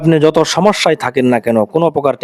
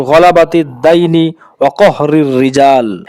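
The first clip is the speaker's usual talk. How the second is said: dua recitation. Acted. Teaching viewers the dua against worry, measured recitation. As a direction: recite the dua deliberately, stretching the closing words.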